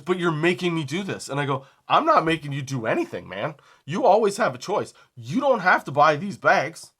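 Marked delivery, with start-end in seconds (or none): 0.0-1.3 higher-pitched protest, imitated; retold annoyance. Customer blaming the clerk for the purchase, mildly mad. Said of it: "I understand why you're mad". 1.9-6.9 louder, higher exasperated retort; retold arguing back. Clerk telling a customer he has a choice, exasperated.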